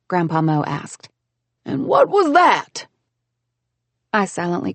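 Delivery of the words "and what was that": bright high scolding woman; heroine voice. A narrator's reading. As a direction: scold him, pitched up and loud. Grandpa's voice, calling.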